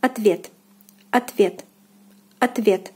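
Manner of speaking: "ответ" said at-VYET, stress on the second syllable; Russian pronunciation. Shown as a demonstration. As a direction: say "ответ" as separate model takes, O as a. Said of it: "The second syllable, the vowel ye".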